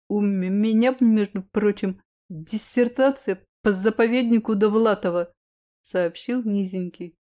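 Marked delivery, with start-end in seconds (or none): 0.1-5.3 stammering. Acted. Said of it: "Чуть заикаясь".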